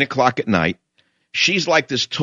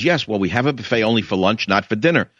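understated patience, in a lower pitch; mildly patient; 4 semitones lower than usual. Retold or imitated. Indian restaurant owner repeating the rule to a customer, mildly patient. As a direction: explain it patiently to a pushy customer. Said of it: "the Indian woman patiently says".

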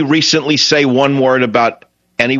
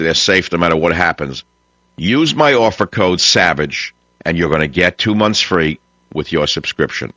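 lower-pitched sponsor pitch; radio ad read; 5 semitones lower than usual. Acted. Host selling computer backup to his radio listeners, ad read. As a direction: deliver a measured host-read advert.

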